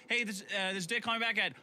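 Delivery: slow robot voice reading numbers; robot-like, spacing each number. Retold or imitated. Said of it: "I talk like a robot".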